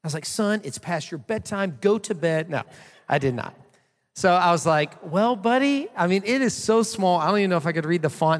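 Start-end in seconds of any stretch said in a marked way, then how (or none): 0.2-2.5 higher-pitched, playfully firm bedtime order; mock-stern dad. Dad jokingly shooing his son to bed, mock-stern. 5.0-8.4 put-on high, loud, hedging excuse to a child; hedging dad. Dad dodging a bedtime reading for his son, hedging.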